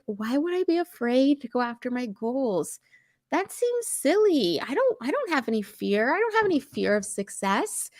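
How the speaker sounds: lightly acted disbelief, lilting upward; dismissive inner voice. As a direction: brush it off as silly, pitch swooping high on the scoff. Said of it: "we tend to think on the surface, like".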